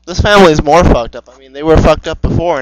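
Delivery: loud, exasperated outburst; appalled. Real, not acted. Co-host appalled by the story's family, loud outburst. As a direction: burst out in loud disbelief.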